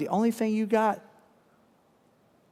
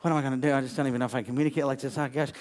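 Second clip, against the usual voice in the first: retold panic; 5 semitones lower, 6 dB quieter, much faster than usual. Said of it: "I was like".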